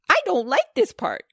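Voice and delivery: put-on high, frightened child's voice; scared little girl. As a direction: whimper it out, scared. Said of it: "cried Bridget".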